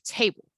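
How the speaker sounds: "table" with the last syllable cut short; cut-off ending. Shown as a demonstration. Teacher showing how the word gets cut off, cut-off ending on "table". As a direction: say "table" with a clipped, swallowed second syllable. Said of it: "sounds almost like it's cut off".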